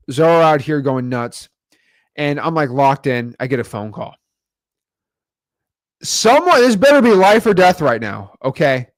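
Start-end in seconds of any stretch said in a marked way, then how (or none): 6.0-8.9 annoyed. Retold or imitated. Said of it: "I'm mad".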